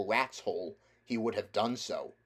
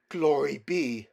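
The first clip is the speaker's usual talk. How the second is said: awed cabby; 4 semitones higher, 6 dB louder, slower than usual. Acted.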